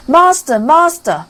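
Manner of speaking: high, loud cry of alarm; harp calling loud. A narrator's reading. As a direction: shout for the master in alarm. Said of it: "the harp called out quite loud".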